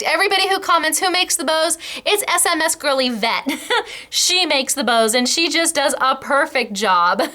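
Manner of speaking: high, giggly and bubbling over; laughing. Real, not acted. Praising Yvette's bows, laughing high and giggly.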